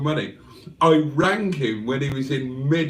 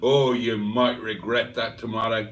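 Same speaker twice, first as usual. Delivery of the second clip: put-on American accent; 4 semitones lower than usual. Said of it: "he lives in America".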